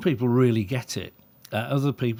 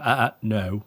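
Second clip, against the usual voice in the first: deadpan telling off. Retold or imitated. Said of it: "very deadpan".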